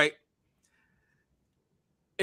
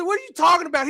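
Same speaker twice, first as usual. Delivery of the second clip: retold disbelief; 11 semitones higher, faster than usual. Retold reply to driver.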